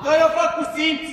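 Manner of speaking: urgent sideline shout, pitch climbing; shouted instruction. Real, not acted. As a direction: call it out across the pitch.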